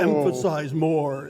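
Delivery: EMPHASIZE stretched slow and loud. Shown as a demonstration. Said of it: "I'm just going to talk stronger".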